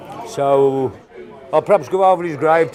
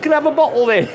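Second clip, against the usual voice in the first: laughing while asking; 11 semitones higher, faster than usual. Retold or imitated. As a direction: ask for a bottle, chuckling.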